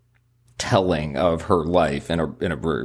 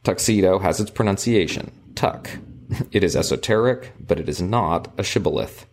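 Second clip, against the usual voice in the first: measured, formal book narration; reading aloud. A narrator's reading. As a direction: read the passage out with careful phrasing. Reads book passage aloud.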